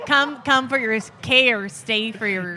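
slow mock Minnesota accent, lightly done; playful light Minnesotan accent. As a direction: drawl the slogan in a hint of Minnesotan. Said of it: "I was gonna say".

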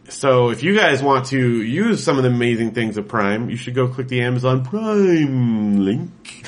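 slow hard-sell ad pitch; commercial voice. Acted. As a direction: sell it like a TV spot. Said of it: "Stop doing that".

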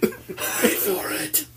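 very slow, whispered suspense; dramatic slow build. Acted.

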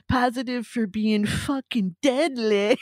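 a hint of an exaggerated Canadian accent; imitating Canadian accent. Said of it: "his accent is just".

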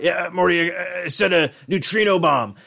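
a casual mad-scientist confession; Rick impression.

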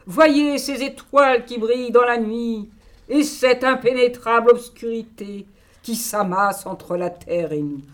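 grand stage orator, lifted and proud; theatrical declamation. Acted. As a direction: proclaim it like a nineteenth-century hero. Jules Verne text declaimed.

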